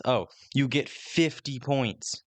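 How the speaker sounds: slow, drawn-out mock game-show hype; mock game announcer. Mocking games that hand out points, slow cheesy announcer voice. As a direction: stretch the points line like a cheesy host.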